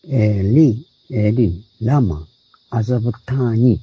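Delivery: エリ、エリ、ラマ、アザブターニ said as slow, separate Hebrew words; エリ、エリ、ラマ、アザブターニ, carefully pronounced Hebrew; Hebrew original. Shown as a demonstration. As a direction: sound out エリ、エリ、ラマ、アザブターニ word by word. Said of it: "原文で言う".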